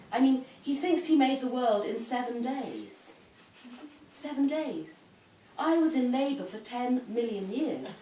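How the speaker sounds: measured dramatic monologue as a put-upon wife; wry comic poem performed aloud; poetry reading. Acted. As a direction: read it as a wife airing her grievances, stressing key words. Reads Missus God poem aloud.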